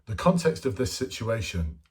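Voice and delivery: pompous formal phrasing; stiff jargon. Shown as a demonstration. Mocking the candidate who talks like a dick, stiff formal jargon. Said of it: "no one talks like that".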